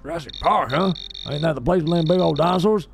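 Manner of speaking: lightly voiced folksy homeowner, quickening; country homeowner. Homeowner doubting dinosaur park's safety, folksy and wary. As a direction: play a wary country local.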